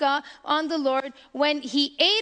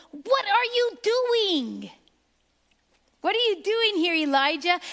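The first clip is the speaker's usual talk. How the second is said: higher, pressing voice of God; shaking call; 5 semitones higher than usual. Acted. The Lord shaking Elijah out of hiding, raised and pressing. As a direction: call out to shake him awake. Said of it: "when the Lord shakes us and go".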